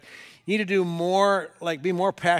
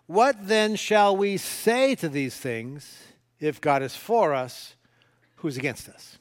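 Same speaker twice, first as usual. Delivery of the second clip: slow, weighty reading of the verse; scripture reading; slower than usual. Acted. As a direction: read the question slowly, letting it land. Reads scripture slowly.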